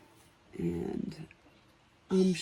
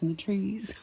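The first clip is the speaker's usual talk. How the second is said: whisper; 5 semitones higher, 4 dB quieter than usual. Real, not acted. Soft wistful trailing whisper.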